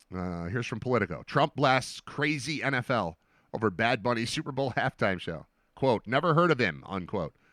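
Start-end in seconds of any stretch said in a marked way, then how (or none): none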